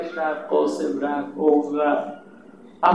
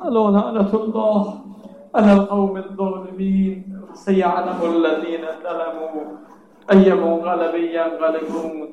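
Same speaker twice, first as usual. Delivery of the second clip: sermon recitation. Acted. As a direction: intone it like a pulpit closing. Closing Arabic recitation. (تلاوت آرام عربی)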